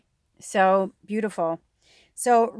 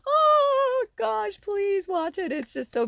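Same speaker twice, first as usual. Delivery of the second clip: welling up; 14 semitones higher, slower than usual. Real, not acted. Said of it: "I'm starting to cry".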